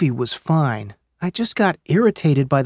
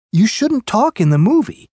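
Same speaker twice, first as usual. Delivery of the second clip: higher-pitched mock scolding; imitated arguing; 5 semitones higher than usual. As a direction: act out a moviegoer's indignant complaint. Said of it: "Their voices were getting louder and louder".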